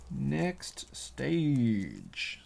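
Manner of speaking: "Next stage" whispered slowly as a playful echo; slow, dramatic whispered "Next stage". Shown as a demonstration. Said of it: "for the next stage".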